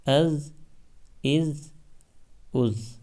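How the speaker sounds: از with a soft, thin ذ. Shown as a demonstration. Teacher drilling students: soft thin از. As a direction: say the ذ in از lightly. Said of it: "نرم اور باریک ہی پڑھیں گے".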